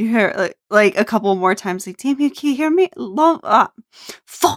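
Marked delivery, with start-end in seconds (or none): 2.0-3.7 faint, fading, distant voice, pitched up. Narrating a familiar voice calling out to Damien, voice growing fainter. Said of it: "the voice starts to get fainter".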